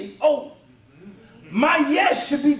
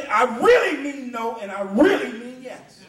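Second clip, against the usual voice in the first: "really" leaned on in both halves; emphatic "really", insisting on the meaning; stress on REALLY; 2 semitones lower than usual. Shown as a demonstration. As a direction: press the word "really" each time. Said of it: "it's an emphasis".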